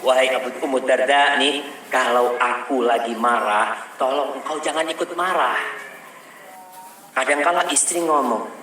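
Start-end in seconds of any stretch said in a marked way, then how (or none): none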